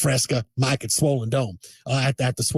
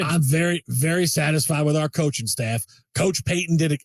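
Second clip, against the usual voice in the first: Jerry Jones impression. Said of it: "this Jerry Jones thing is going so well".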